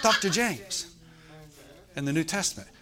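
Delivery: put-on caricatured Korean-accented English, phrase by phrase; imitated Korean accent. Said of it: "South Korean man".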